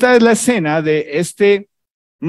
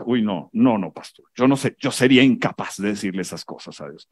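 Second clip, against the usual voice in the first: shocked believer; 9 semitones lower, 5 dB quieter than usual. Retold or imitated. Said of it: "Tú dices".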